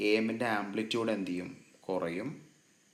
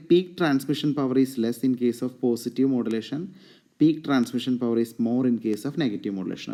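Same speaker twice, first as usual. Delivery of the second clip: very slow and loud, word by word; slow dictation, louder; 5 dB louder, much slower than usual. Shown as a demonstration. Lecturer reading a comparison point for students to copy, slowly. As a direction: spell the point out for note-taking.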